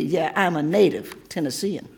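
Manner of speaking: joyful shouted finale with laughter; laughing shout. Acted. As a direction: shout the last line with a laugh. Poem's final shouted refrain.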